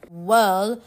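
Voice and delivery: a touch of baffled surprise; puzzled amazement. A narrator's reading. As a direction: draw it out in wonder. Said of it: "scratching his head puzzled".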